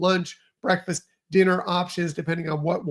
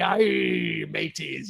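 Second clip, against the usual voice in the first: a light, playful pirate greeting; 2 semitones lower, much slower than usual. Pretend. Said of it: "you know I'm going to talk like a pirate".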